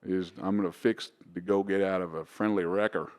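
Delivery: lightly put-on Texan accent; slowed-down Texan accent. Shown as a demonstration. Australian showing hosts his American accent, light Texan drawl. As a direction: attempt a down-home Texas accent. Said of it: "want me to slow it right down?".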